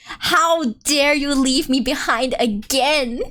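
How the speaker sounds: slow, drawn-out mock reproach; bitter little sister. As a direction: imitate a wronged little sister, dragging it out. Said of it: "She's still bitter".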